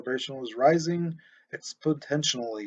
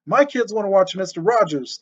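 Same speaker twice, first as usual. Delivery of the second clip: louder, higher, shouted reply; yelling back; 5 semitones higher, 6 dB louder than usual. A narrator's reading. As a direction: yell back across the yard. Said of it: "Tuthill yelled back".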